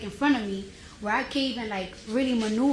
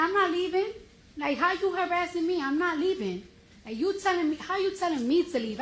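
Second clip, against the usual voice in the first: higher-pitched, heated retelling of her protest; replaying her indignant argument; 6 semitones higher than usual. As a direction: fire back in disbelief. Retold argument, quoting herself.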